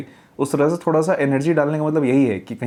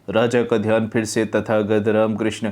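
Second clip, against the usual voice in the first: mumbled jaw closed; 3 semitones lower than usual. Shown as a demonstration. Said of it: "इतना सा मुंह खोल खोल के बोल रहे हैं".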